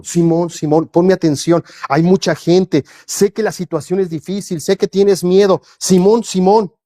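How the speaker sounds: earnest, caring plea for attention; mildly tender, pastoral urging; loving appeal. Retold or imitated. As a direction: reassure a frightened friend. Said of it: "con un amor en su voz".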